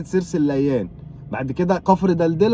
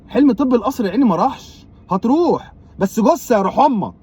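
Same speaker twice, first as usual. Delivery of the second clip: mocking consolation; 5 semitones higher than usual. Mock consoling nephew.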